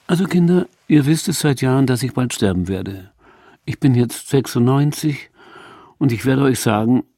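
lightly voiced old mother; old mother's voice. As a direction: announce it like a ritual. Mother announces her death.

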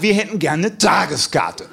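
slow, emphatic insistence stressing wir; challenged, insistent. Retold or imitated. Guys insist on a day pass, slow and pointed. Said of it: "testosterontechnisch etwas herausgefordert".

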